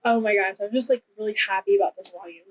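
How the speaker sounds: quick, excited rush of words; hurried, happy rambling; talking fast. Real, not acted. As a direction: gush quickly about something you're really happy with. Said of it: "I know I'm talking fast".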